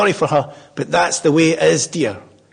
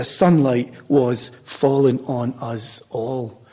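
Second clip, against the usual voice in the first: slow and lingering; 2 semitones lower, much slower than usual. Shown as a demonstration. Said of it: "I always want to add to it".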